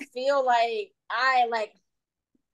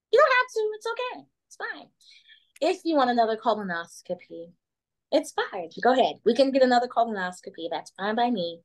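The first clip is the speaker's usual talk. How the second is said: light impression of sweet mom; a hint of a sugary mom; imitating mom. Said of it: "great impersonation of mommy".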